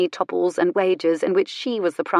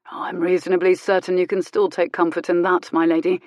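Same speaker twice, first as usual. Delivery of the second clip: dry. Acted. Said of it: "he said dryly".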